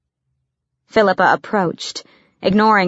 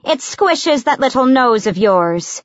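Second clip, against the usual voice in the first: high, drawn-out calling over the shoulder; calling back; 6 semitones higher than usual. A narrator's reading. Servant leaving the room teases the assassin, calling back. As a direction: sing it back, slow and raised. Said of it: "called over her shoulder".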